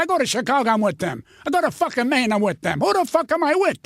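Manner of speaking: mock exasperation; exasperated retort. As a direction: voice climbing to a high, incredulous question. Exasperated retold argument about affiliation.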